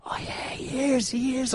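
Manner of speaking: a half-whispered, slow "oh yeah, he is" as it finally clicks; dawning realisation. Retold or imitated. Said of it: "I'm like".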